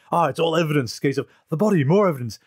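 a hint of schoolboy excitement over a find; giddy Mulder. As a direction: imitate an eager, giddy schoolboy. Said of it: "giddy schoolboy mode".

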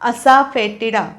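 असाफेटिडा spelled out slowly, a-sa-fe-ti-da; slow pronunciation. Shown as a demonstration. Teacher slowly modelling a hard word for students. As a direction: drag out असाफेटिडा syllable by syllable. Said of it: "त्याचा उच्चार करायचा आहे असाफेटिडा".

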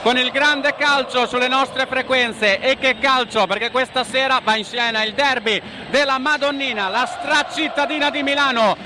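warm, formal radio welcome; radio sports announcer. Acted. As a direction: greet listeners like a stadium announcer. Radio commentator opening broadcast. (annunciatore radiofonico)

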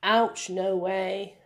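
slow, drawn-out mock-surprised ouch; a light imitation of a startled presenter; Steve Irwin exclamation. Teacher imitates Steve Irwin to a snake, mock surprise. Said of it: "he says to the snake, Steve Irwin".

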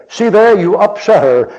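put-on high, loud teenage accusation; accusing girl. Catholic girl accusing him.

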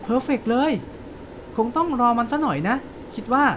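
lightly voiced Emma recounting a story; character monologue read aloud. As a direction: tell Kay's memory as Emma. Reading Emma's monologue.

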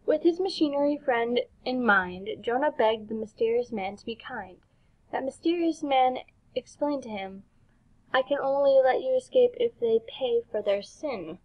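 measured rhyming storybook read; story narration. Acted. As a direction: narrate the verse line by line. Reads game's rhyming story.

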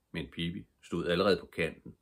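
ordinary delivery, nothing marked

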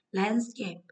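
"Landscape" drawn out slowly, LAND strongest; stress on first syllable. Shown as a demonstration. Teacher going through stress answers, "Landscape" stressed on LAND. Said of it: "trọng âm một".

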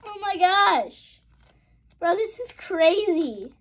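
high, drawn-out, falling exclamations; amazed disbelief. Real, not acted. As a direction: marvel slowly in a high voice. Still amazed by the rare pull.

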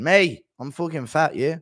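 a hint of a mocking impression; the speaker doing Schmitty. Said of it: "the speaker doing a Schmitty impression".

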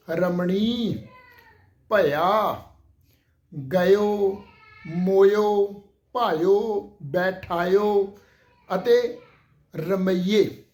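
each word said on its own, clear and loud; careful pronunciation. Shown as a demonstration. Teacher recapping the correct pronunciations. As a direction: list the words one by one with pauses. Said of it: "ਇਸ ਢੰਗ ਦੇ ਨਾਲ ਇਹਨਾਂ ਸ਼ਬਦਾਂ ਦਾ".

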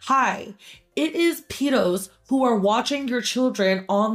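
pointed callout. Retold or imitated. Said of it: "They are very clearly being told".

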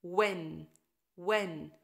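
when with silent H, clear W; W sound. Shown as a demonstration. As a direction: read when as wen. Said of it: "هخليكم تقروا الكلمات".

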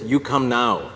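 terse, imitated Croatian-accented order. Associate pastor passes on the pastor's summons, in a Croatian accent. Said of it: "I have to do the accent".

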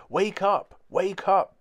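high, loud bark of a wake-up call; high, loud barking shout. A narrator's reading. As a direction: bark it at the sleeping boy. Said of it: "barked Newton".

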